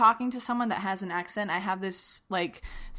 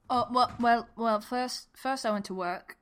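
put-on British accent, lightly Cockney; 2 semitones higher than usual. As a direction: answer in an amateur British accent. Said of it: "Jen is using a British accent".

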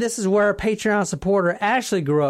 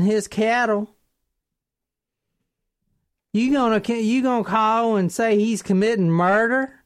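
put-on country accent. Police doubting a caller who blames a farmer, put-on country accent.

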